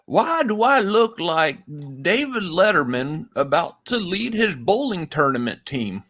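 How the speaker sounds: creaky-old-timer impression, lightly done; old man voice. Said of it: "this old man thing here".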